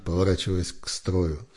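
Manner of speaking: ordinary delivery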